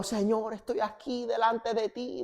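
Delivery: meek retold prayer. Husband answering God in prayer, soft and meek. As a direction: answer God softly and meekly.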